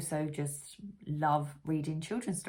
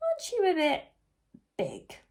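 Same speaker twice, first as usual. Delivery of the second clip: questioning bee; 9 semitones higher than usual. Acted. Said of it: "asked Amelia".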